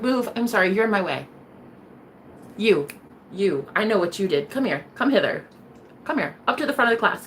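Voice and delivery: hint of a creepy avenging witch; menacing Carrie. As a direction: play the vengeful Carrie lightly. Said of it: "like Carrie at the end of the movie".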